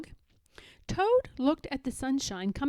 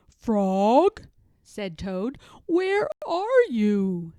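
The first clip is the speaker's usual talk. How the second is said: worried call; 5 dB louder, much slower than usual. Acted. Toad searching for Frog.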